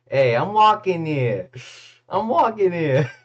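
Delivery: high, loud movie-line impression; mock indignant shout. Streamer putting on a famous line for chat, mock indignant shout. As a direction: call it out like an indignant pedestrian.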